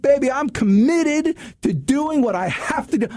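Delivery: drawn-out, emphatic self-promise; imitated rousing vow. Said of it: "And here I am yelling".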